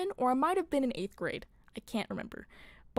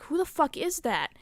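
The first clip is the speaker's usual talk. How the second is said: pitched-up, alarmed question; retold freak-out; 5 semitones higher than usual. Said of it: "freaking out".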